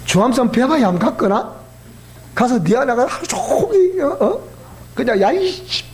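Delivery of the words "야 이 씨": a sudden curse spat out high; mock cursing yell; mock angry outburst. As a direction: blurt it like letting off steam. Venting anger on mountain.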